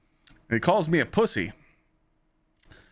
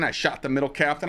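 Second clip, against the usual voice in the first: ordinary talk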